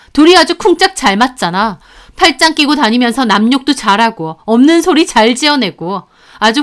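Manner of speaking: bitter, contemptuous parting tirade; spitting out words. Acted. Narrator curses both in-laws before leaving, bitterly scornful. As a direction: spit every insult out with scorn. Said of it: "씹어뱉듯이 말하고".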